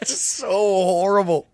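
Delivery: very high, loud, near-crying with laughter; helpless laughter. Real, not acted. Telling a friend about horrible radio jokes, helplessly laughing. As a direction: squeal it out while cracking up.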